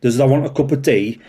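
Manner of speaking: hammed-up broad Yorkshire accent. Officer mocking his own Yorkshire accent, broad Yorkshire. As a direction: play the Yorkshire local offering tea. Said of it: "Yorkshire accent. I should be on Emmerdale".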